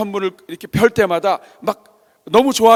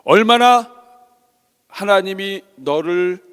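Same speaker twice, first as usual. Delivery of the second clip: slow, spaced-out divine address; voice of God; 3 semitones lower, much slower than usual. Acted. God speaking into the father's heart, slow and solemn. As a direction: let each phrase land with long pauses. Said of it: "하나님의 음성이 들린 거예요".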